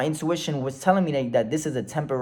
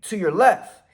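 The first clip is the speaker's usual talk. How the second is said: higher mock police command; retold yelled instructions; 4 semitones higher than usual. Police directing driver out of truck, retold yell. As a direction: call out the order like a cop. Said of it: "yelling in-, instructions".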